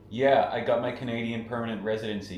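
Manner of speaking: Canadian vowels, playful; Canadian accent. Shown as a demonstration. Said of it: "in a Canadian accent?".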